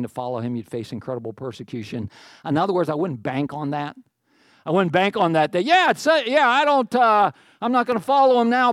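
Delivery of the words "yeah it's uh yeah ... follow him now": higher, louder mock shrug-off; lightly acted brush-off, pitched up; dismissive excuse. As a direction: voice someone waving the idea away. Voices a dismissive would-be convert.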